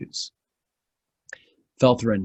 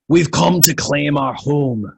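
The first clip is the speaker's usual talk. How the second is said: proud dwarf announcement; dwarves announcing; 4 semitones higher, 6 dB louder than usual. Acted. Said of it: "they announced to the sojourners".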